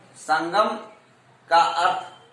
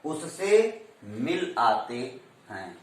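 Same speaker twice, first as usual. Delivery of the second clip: slow, soft उससे, मिल, आते with gaps between; measured demo reading with a break around मिल; juncture pauses; 4 semitones lower, 5 dB quieter, slower than usual. Shown as a demonstration. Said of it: "विराम लेना पड़ता".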